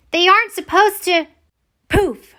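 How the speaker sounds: frustrated outburst. Acted. Wilma frustrated as wombat pops up.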